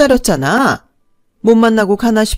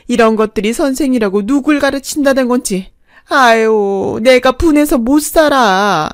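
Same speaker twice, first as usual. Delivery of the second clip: a mother-in-law's hammed-up wail of grievance, higher; loud wailing; 3 semitones higher, 5 dB louder than usual. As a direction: lament loudly to shame them in public. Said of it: "큰 소리로 통곡을 하기 시작했어요". (계모가 학원 접수대 앞에서 울부짖듯 하소연하는 과장된 통곡)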